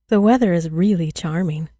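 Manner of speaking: loud, sociable small talk; cheerful. A narrator's reading. Village girl makes small talk to children, cheerfully. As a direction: chat cheerily, with emphasis. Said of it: "in the same cheerful voice".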